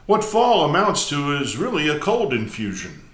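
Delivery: measured, emphatic prose-poem recital; poetry reading. Acted. Host reads a prose poem to viewers, measured recital. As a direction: read it out phrase by phrase with deliberate pauses.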